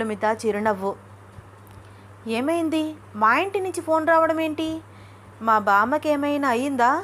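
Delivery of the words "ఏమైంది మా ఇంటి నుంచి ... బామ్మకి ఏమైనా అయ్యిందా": higher-pitched anxious questions; worried, rising alarm easing at the end; flustered worry. Acted. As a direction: ask in a mild panic. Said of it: "కంగారు పడుతూ అంది అనన్య".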